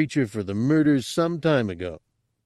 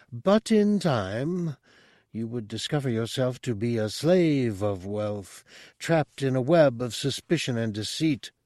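higher, calm all-knowing monk; mystic monk voice; 4 semitones higher than usual. Acted. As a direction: speak as a serene mystic. Monk's speech read aloud.

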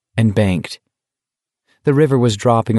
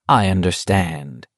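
soothing; 2 semitones lower than usual. Acted. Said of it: "Stebbins said soothingly".

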